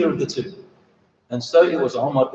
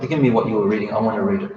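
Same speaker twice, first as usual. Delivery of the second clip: gentler, lower, almost pleading; softened request; 5 semitones lower than usual. Retold or imitated. He said to himself, "What has become of me?.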